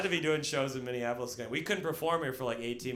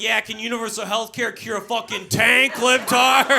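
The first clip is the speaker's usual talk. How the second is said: small-town conservative; 7 semitones higher, 8 dB louder than usual. Retold or imitated. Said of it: "They're like".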